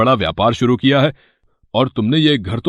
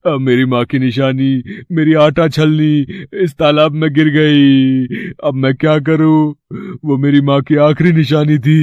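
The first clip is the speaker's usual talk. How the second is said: fake crying. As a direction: wail for the goddess's pity. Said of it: "तुम रो क्यों रहे हो?".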